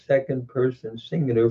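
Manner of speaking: ordinary delivery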